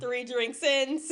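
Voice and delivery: tipsy, slightly slurred. Real, not acted. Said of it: "it's kinda slurred".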